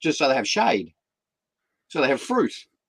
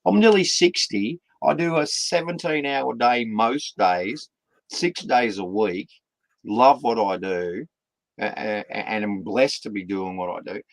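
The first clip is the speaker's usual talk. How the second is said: exasperated dad. Retold or imitated. Dad telling his tired kids off, incredulous. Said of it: "I'm going".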